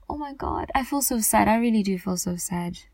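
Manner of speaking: real sadness. Real, not acted.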